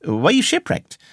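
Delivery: high, amazed questioning; astonished question. A narrator's reading. Young narrator asking a castaway what befell him, high and astonished. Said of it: "I cried".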